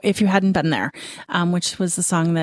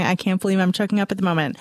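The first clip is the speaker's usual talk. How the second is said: quick aside; faster than usual. Retold or imitated. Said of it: "I'm looking over at Dan going".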